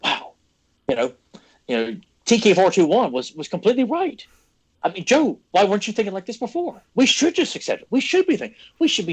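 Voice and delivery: high sarcastic mock voice of the critics. Host mocks critics who told him to accept it, sneering high. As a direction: parrot the know-it-alls, pitch climbing. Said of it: "that they're like".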